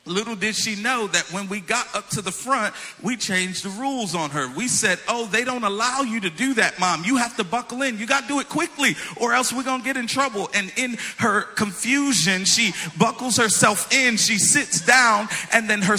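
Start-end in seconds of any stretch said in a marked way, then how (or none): 5.1-10.5 higher-pitched, mock-urgent insistence; urgent coaxing. Children trick their mom into buckling in, urgent coaxing. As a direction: hurry her along in a raised pitch. Rushing mom onto the ride.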